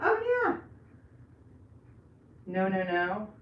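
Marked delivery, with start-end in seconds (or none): 0.0-0.6 mock reaction. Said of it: "I was like".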